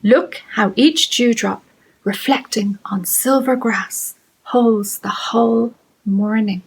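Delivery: measured, spaced-out poem; haiku reading. Acted. Teacher reading an Irish poet's haiku, measured poetry reading. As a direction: give each phrase room, slowing towards the end.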